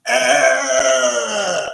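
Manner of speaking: loud drawn-out mock groan; a long, loud "uhhh" for spurting gore; imitated gore noise. Film fan mocking gory slasher scenes, mock groan.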